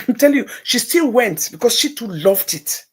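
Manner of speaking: laughing. Real, not acted. Laughing over daughter's success.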